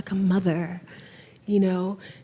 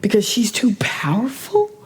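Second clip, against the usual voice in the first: crying whisper; 3 semitones higher than usual. Real, not acted. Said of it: "I almost cried again".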